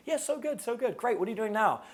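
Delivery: put-on high girly voice, bright and quick; guy playing the girl, upbeat and high; girl's voice. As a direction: chirp it like a cheerful classmate. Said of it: "She's like".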